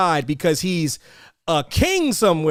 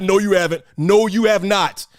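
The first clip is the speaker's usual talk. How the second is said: firm denial. Real, not acted. Flat contradiction of co-host's claim.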